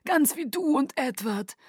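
courtly Aro. Acted. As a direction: flatter her with lofty charm. Aro's voice.

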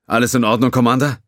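concerned. Acted. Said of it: "sichtlich besorgt".

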